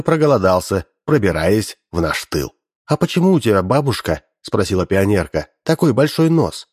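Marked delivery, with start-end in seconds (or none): 2.9-4.2 bright questioning schoolgirl voice; naive girl voice. Acted. Girl questions disguised saboteur. 5.6-6.7 bright questioning schoolgirl voice; naive girl voice. Acted. Girl questions disguised saboteur.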